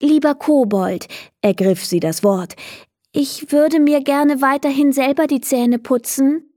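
put-on a girl kindly turning down the goblin; polite little girl. Leni speaking to goblin. (höfliches Mädchen, höhere Stimme)

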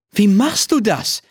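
hohe, staunende Kinderfrage; staunende Mädchenstimme. A narrator's reading. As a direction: frag voller Staunen wie ein Kind. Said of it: "fragt sie". (hohe Mädchenstimme, staunend)

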